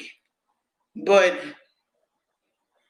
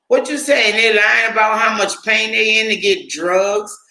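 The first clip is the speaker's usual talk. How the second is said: indignant outburst; 3 semitones higher than usual. Real, not acted. Indignant retort to the article.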